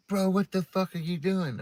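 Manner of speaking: high, alarmed imitation of the neighbor; shocked neighbor. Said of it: "He's like".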